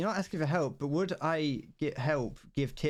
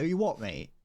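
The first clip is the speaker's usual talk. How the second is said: brash London geezer "You what, mate?", chest out; mock chav challenge; 3 semitones higher than usual. Mocking a British chav squaring up, brash. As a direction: bark it like a gorilla beating his chest. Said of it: "You know, you go".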